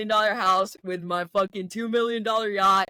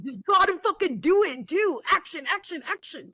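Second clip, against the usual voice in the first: pumped up; 9 semitones higher than usual. Real, not acted. Pumped urging him to act.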